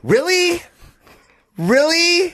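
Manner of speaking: high, squeaky mock of a thin voice. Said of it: "I'll say really".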